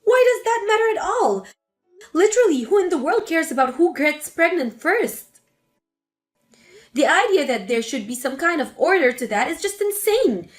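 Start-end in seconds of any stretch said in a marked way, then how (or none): 0.0-5.3 higher, sharp indignant burst; angry outburst. Acted. Melissa confronting her mother, higher and indignant. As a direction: fire back in disbelief.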